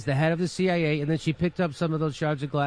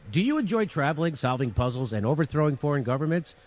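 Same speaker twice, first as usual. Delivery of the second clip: parody advert. Pretend. Commentator spoofing a CIA recruitment ad, mock-salesy. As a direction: sell it like a hammed-up commercial.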